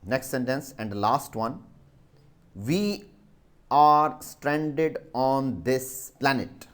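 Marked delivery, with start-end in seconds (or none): 2.5-6.7 We are stranded on this planet said slowly, word by word; slow dictation. Shown as a demonstration. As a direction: dictate slowly so pupils can write. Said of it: "S T R A N D E D".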